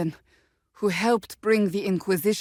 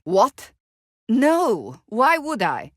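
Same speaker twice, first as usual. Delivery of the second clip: startled denial; 4 semitones higher, slower than usual. Acted. Flustered at being asked about romance.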